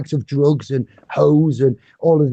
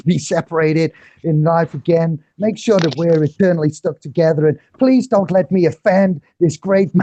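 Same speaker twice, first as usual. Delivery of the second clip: higher-pitched mock prayer, terrible accent; 5 semitones higher than usual. Retelling a friend's prayer for Andy, terrible put-on accent. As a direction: keep up a bad imitation accent, praying earnestly. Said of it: "for the terrible accent".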